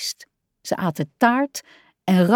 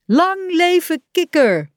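high, drawn-out cheer; roepend; 10 semitones higher, 4 dB louder than usual. A narrator's reading. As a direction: cheer it out slowly and jubilantly. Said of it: "riepen ze". (juichend uitgeroepen, hoog)

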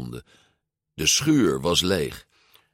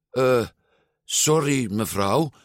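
hesitant, higher polite address; 5 semitones higher than usual. A narrator's reading. Luca approaching a farmer's wife with a question, polite. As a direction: excuse yourself courteously. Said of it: "vroeg Luca beleefd".

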